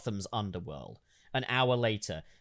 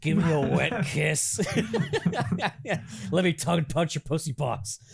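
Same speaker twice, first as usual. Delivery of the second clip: sleazy gangster; 4 semitones higher than usual. Acted.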